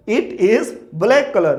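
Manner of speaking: "it is black color" slowly, with "it" and "is" set apart; slow model sentence. Shown as a demonstration. Teacher models the correct sentence for learners, slow and deliberate "it is black color". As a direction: spell out the right sentence word by word: "it is black color". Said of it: "आप बोलेंगे it is black color".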